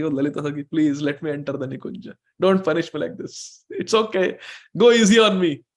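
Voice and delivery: a hint of acted pleading, rising at the end; lightly voiced pleading Krishna. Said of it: "Krishna who is speaking like this is falling at the feet".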